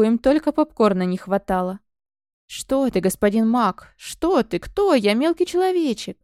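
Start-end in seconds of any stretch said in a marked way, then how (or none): 2.5-6.2 sly servile hissing, pitched up; snake hiss. Acted. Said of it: "зашипел опять мужичонка".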